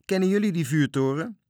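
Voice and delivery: high, loud hail across the water; shouted call. A narrator's reading. Little captain to sailors on their rafts, shouting. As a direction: call out a question to distant rafts. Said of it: "schreeuwde naar de matrozen op hun vlotten".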